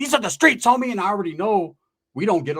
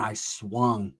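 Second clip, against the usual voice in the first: slow dramatic beat; 7 semitones lower, 6 dB quieter than usual. Retold or imitated. Dramatic climax of the fight story.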